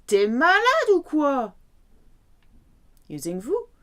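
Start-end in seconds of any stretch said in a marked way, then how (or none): 0.1-1.5 quick casual T'es with the vowel swallowed; spoken fast. Shown as a demonstration. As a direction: run "T'es malade ou quoi?" together fast. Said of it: "Spoken fast".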